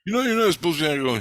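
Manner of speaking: imitating a rescuer's fussy telling-off; retold scolding. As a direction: rattle it off like someone telling you off. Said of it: "He was yelling at me, bitching at me".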